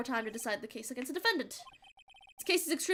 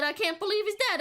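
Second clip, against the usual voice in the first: put-on southern accent; 7 semitones higher, 5 dB louder than usual. Witness quoting the defendant in a light Southern accent. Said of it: "why'd I give him a southern accent".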